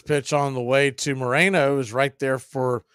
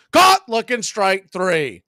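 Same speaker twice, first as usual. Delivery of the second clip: excited call; 2 semitones higher, 5 dB louder, slower than usual. Real, not acted. Strikeout call in play-by-play.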